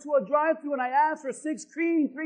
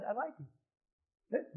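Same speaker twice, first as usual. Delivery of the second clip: drawn out, very slow; slow confession; 2 semitones lower, 14 dB quieter, much slower than usual. Shown as a demonstration. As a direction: let them drag out the confession, slowly. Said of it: "Say it".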